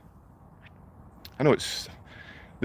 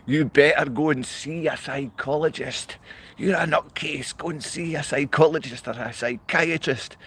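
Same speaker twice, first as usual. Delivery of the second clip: mocking official; 5 semitones higher than usual. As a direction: drag it out, high and mocking, like a smug agent. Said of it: "People out here from the security service say".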